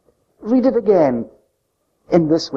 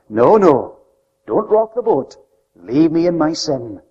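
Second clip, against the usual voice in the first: acted dismissive protest. Acting out the sons brushing God off.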